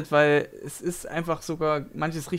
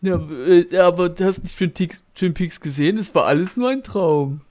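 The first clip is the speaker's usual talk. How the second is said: mocking Dave; 2 semitones higher, 5 dB louder than usual. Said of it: "wie halt Dave das gerne immer zitiert".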